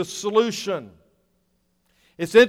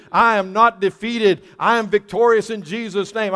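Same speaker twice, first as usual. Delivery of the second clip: building declaration of faith. Retold or imitated. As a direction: declare it over yourself, each line gaining force. Retold self-declaration of faith, building.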